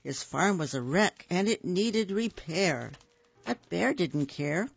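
put-on lively read-aloud for young children; storybook narration. A narrator's reading. Reading a picture book to little kids, storybook voice. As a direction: tell it like bedtime story time.

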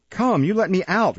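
high-pitched demand to be freed; insistent demand. Acted. Locked-in boy calling to the beadle, insistent demand. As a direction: pipe up insistently, pitch jumping.

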